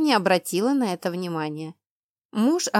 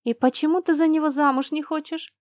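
careful, higher-pitched inquiry; cautious question; 8 semitones higher than usual. A narrator's reading. Friend asks why she refuses him, cautiously. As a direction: tread carefully while asking. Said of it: "осторожно поинтересовалась я".

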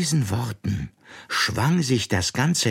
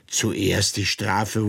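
incredulous echo; much slower than usual. Acted. Alice repeats in disbelief.

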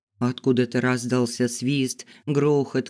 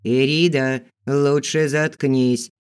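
growl; 4 dB louder, slower than usual. Acted. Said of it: "прорычал неизвестный".

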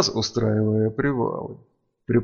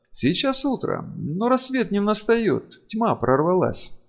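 inhumanly calm; 9 semitones higher than usual. Acted. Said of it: "с нечеловеческим спокойствием и достоинством".

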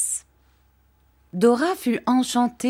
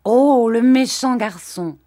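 gronderie mutine; 5 semitones higher, 8 dB louder, slower than usual. A narrator's reading. Dora gronde pour rire.

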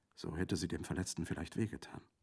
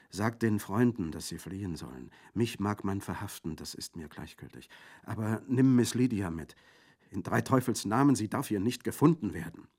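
urgent command; 3 semitones higher, 6 dB louder than usual. Acted. Wounded Orso urging them flee.

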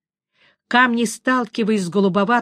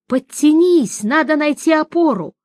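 high, raised push; strained urging; 6 semitones higher, 4 dB louder than usual. A narrator's reading. Witcher straining urges the sorceress to pull up, raised voice. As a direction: urge her with effort.

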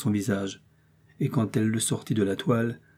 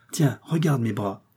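slow, breathy whisper; playful whisper. Acted. Young wife teasing her husband, in a whisper. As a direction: whisper it, showing off.

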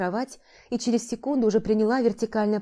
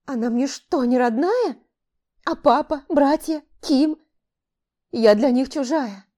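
higher and louder, crying out in despair; despairing outcry; 5 semitones higher, 4 dB louder than usual. Acted. Heroine cries out that she's a stranger to her family, despairing. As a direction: wail to the goddess, losing it.

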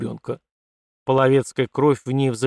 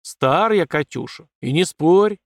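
put-on a gruff old father's growl, a little louder; 5 semitones higher, 5 dB louder, slower than usual. Old father growls at his daughter, cutting off her reply. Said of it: "рыкнул Павел Лукич".

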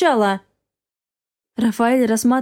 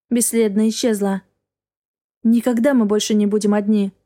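usual speaking voice

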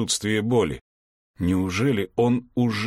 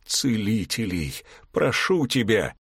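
pleading with a voice that cracks; breaking voice. Acted. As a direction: beg for healers, voice breaking. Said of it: "взмолился срывающимся голосом".

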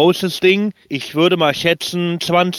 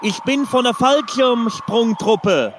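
mock panic; 7 semitones higher, slower than usual. Parachutist prank call continues.

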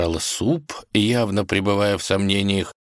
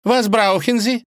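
much higher, mock German question; lightly louder German accent; 5 dB louder than usual. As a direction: princess snapping in German. Vasilisa answers in German.

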